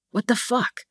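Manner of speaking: sharp hissed whisper, under breath. A narrator's reading. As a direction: hiss it so nobody hears. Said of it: "he hisses".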